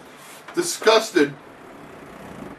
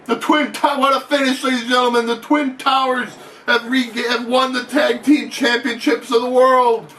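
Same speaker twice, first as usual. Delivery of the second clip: raised, building excitement to a shouted finish; excited title call; 3 semitones higher than usual. Pretend. Ringside announcer to the crowd at the title win, excited shouting.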